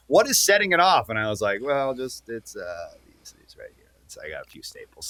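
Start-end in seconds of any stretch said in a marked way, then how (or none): 0.1-1.1 raised-pitch questioning; higher, mock-bewildered query; imitating puzzled screeners. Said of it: "they're like". 1.6-5.1 very soft, halting, sinking voice; hushed retold explanation, trailing lower; sheepish mumble. Retold awkward explanation to security.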